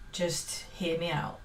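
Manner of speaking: playful whisper. Real, not acted. Asking viewers not to leave, whispered. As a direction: whisper it like a cheeky secret. Playful plea to stay watching.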